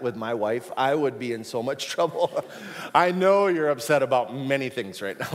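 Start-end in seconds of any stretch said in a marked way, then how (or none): 2.9-5.3 a mock snippy take, a little louder; weird snippy voice. Shown as a demonstration. A husband trying Jesus' words on his wife, mock attitude. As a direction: say it with a put-on attitude. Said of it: "really weird voice and attitude".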